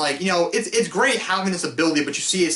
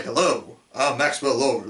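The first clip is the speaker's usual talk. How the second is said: lightly put-on fake voice, a bit lower; Maxwell Lord; 4 semitones lower, slower than usual. Film reviewer imitates the character's early lines, lightly faked voice. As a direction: do a mildly weird, fake-sounding introduction. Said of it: "like, a weird fake voice".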